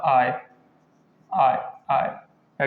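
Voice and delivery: आय stretched very slowly; slow demo sound. Shown as a demonstration. Teacher to class, modelling आय very slowly. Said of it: "उसका उच्चारण क्या होता है?".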